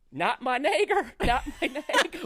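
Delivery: high, loud yelp of protest, breaking into laughter; retold scream. Man being beaten tries to explain himself, mock scream. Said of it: "I'm screaming".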